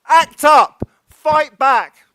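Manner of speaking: loud, high rallying cry; shouted protest slogan. Retold or imitated. Speaker echoing AIDS activists to close a speech, shouted. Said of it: "used to shout".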